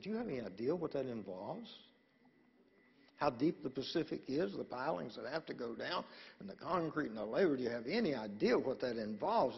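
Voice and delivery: fast exasperated genie. Retold or imitated. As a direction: rattle it off, fed up genie. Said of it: "The genie said".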